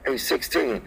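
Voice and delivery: softly; quiet. Shown as a demonstration. Trucker on CB says he'll whisper, softly. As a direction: ease off and say it soft. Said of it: "And I'ma whisper".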